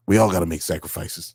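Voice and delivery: low, hammed-up New York accent; mock New York tough-guy line; terrible New York accent. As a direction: quote it in a deliberately bad New York accent. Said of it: "intentionally doing a terrible New York accent".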